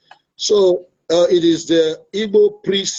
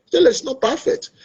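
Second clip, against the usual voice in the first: Ijele said higher and rising, pressing the point; raised emphasis; 9 semitones higher than usual. Real, not acted. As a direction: lift the voice on the repeat.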